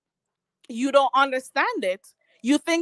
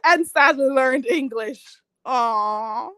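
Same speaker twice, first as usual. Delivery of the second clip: mock crying; slower than usual. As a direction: fake sobbing, exaggerated hurt. Mock crying over insult.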